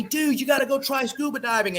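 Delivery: lightly voiced laid-back surfer dude; a hint of a chill surfer bro; Surfer Bob voice. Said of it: "this is my, you know, Surfer Bob voice".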